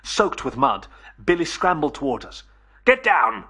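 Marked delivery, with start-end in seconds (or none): 2.8-3.4 loud, abrupt order; shouted warning. Acted. Billy warning his friends of the monster, shouting loudly. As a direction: shout a warning without raising the pitch much. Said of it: "he shouted".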